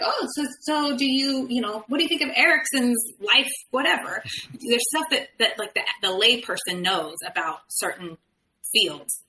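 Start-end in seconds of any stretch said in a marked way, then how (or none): 0.0-4.2 mock curious listener. Imitating someone asking about psychology.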